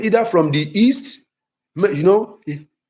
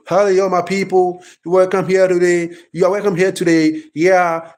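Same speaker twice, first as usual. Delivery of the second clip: American accent. Shown as a demonstration. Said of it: "I'm an Americana, the way I'll be talking will be different".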